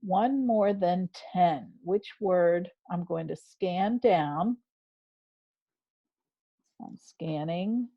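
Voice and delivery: measured teacher modelling her thinking; think-aloud demo. Shown as a demonstration. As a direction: model the scanning step by step for the class. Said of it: "show you what I'd like you to do".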